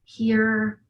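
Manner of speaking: searching, probing voice; mild searching demo; showing the tapping. Shown as a demonstration. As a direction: act out tapping spots one by one. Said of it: "and it was like".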